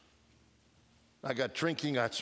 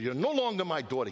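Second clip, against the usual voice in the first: angry father; 3 semitones higher, 3 dB louder, faster than usual. Retold or imitated. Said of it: "he got angry".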